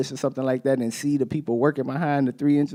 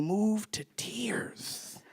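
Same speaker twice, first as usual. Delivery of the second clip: tearful whisper; 7 semitones higher, 12 dB quieter, much slower than usual. Retold or imitated. People moved by dad at park.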